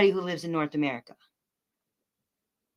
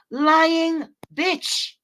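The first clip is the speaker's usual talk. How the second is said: sharp, higher contemptuous jab; a sudden sneering snap; spat insult; 7 semitones higher, 4 dB louder than usual. Real, not acted. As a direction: spit it out at her with contempt. Insulting a troll in chat.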